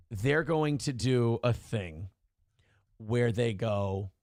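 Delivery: slow, whispered build-up to the punchline; hushed whisper. Real, not acted. Host whispering to his audience about the trap, slow and hushed. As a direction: drop to a whisper to set the trap.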